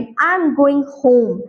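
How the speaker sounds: "I am going home," very slowly, the voice settling down on "home"; falling statement tune. Shown as a demonstration. Teacher demonstrates a falling tone to the class: "I am going home" spoken very slowly, dropping on "home". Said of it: "falling tone in statement".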